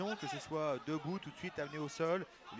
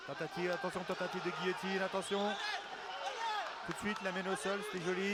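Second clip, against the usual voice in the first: excited; 4 semitones higher, 3 dB louder than usual. Real, not acted. Guillotine attempt called live.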